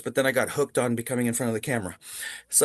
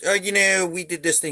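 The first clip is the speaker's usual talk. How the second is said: higher-pitched Doctor Evil impression; 4 semitones higher than usual. Interviewing his idol in character, higher Doctor Evil voice. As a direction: play Doctor Evil, lightly imitated. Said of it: "interviewed him as Doctor Evil".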